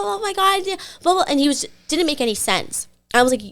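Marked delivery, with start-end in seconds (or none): 0.0-1.2 high, stretched nonsense imitation; mock babble. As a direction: mimic his senseless reply up high. Mimics his nonsense reply.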